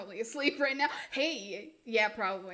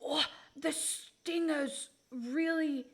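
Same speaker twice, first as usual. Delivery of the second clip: put-on Australian accent; 2 semitones higher than usual. Streamer warning of the stinger, mock Australian accent. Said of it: "I love Australians' accents".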